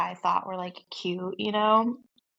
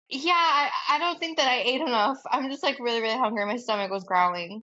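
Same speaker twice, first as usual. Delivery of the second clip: awkward excuse; 4 semitones higher than usual. Retold or imitated. She retells her awkward excuse.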